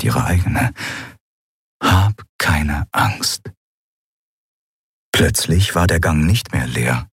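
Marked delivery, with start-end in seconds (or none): 1.8-3.5 inner voice. A narrator's reading. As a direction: whisper it to yourself to stay calm. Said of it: "eine Stimme tief in ihrem Inneren". (sehr langsam und sanft, innere Stimme)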